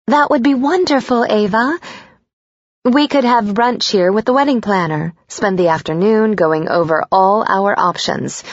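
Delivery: high, gushing mom voice; a thrilled mother making plans; delighted mother. Acted.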